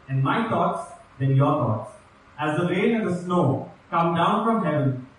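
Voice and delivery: measured, solemn reading of the passage; scripture reading. Acted. Preacher reading Isaiah to the congregation, solemn. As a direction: read it out to the congregation with weight. Reads Isaiah fifty-five aloud.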